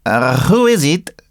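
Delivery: slightly high little character voice. Acted. Cricket calls from within the hut, little voice. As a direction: call out small from inside. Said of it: "said a little voice".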